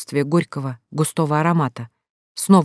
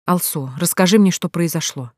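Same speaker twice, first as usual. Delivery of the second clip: soft and gentle. Acted. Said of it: "Голос звучал тихо, обволакивающе, ласково".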